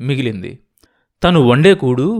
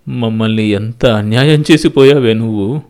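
loud, anguished reproach; lament; 2 semitones lower, 7 dB louder than usual. Acted. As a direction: cry out a grievance. Lament to absent one.

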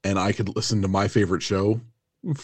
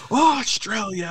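mock greeting; 13 semitones higher, slower than usual. Mock greeting voicing Robbie.

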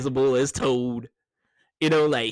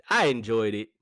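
whisper; 4 semitones lower than usual. Real, not acted. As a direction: whisper it again like a secret. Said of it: "repeats it whispered".

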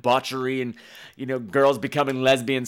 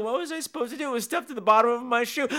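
defensive protest; 9 semitones higher, faster than usual. Retold or imitated. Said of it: "I'm like".

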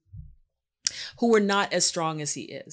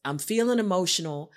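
earnest plea. Retold or imitated. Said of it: "I was like".

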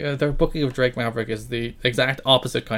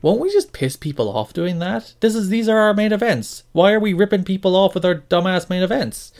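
higher-pitched incredulous questioning; mock exasperated objection, pitched up; imagined objecting writer; 5 semitones higher than usual. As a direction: protest as the lone voice of reason. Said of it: "And no one is like".

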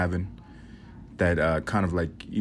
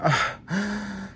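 high, careless shrug of a voice; indifferent grandma; 10 semitones higher, 5 dB louder, much slower than usual. Retold or imitated. Grandma dismissing her dead cat, high and offhand. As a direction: brush it off like it's nothing. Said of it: "She went".

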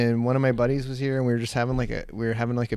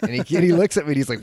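ordinary talk

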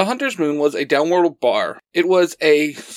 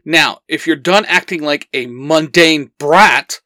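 firm, louder scolding; barking; 3 dB louder than usual. Acted. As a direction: dress him down hard. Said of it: "Xander barks".

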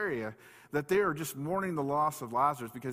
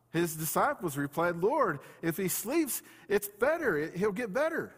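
scripture reading; 5 semitones higher than usual. A narrator's reading. Preacher reading the Lazarus story to congregation, emphatic scripture reading. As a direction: read it out deliberately, lifting the key words.

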